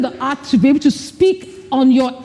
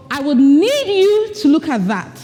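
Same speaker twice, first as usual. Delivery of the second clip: gentler, released "need" on the out-breath; softened, easy request; less emphatic; 4 semitones higher than usual. Shown as a demonstration. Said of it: "make the point less emphatic".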